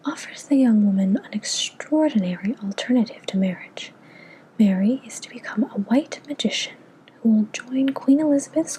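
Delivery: put-on whispered British accent reading. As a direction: read it in a light British accent. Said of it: "in a British accent".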